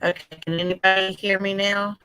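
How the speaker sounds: glitchy robotic internet audio; choppy, digitized voice over a bad connection. Real, not acted. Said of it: "you sound like a robot".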